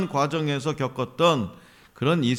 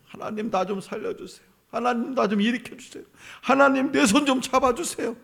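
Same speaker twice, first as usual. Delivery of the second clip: soft begging that climbs higher; plead, getting more urgent; the people crying out to God, pleading ever higher; rising plea; 6 semitones higher, 3 dB quieter than usual. Pretend. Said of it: "막 부르짖었어요".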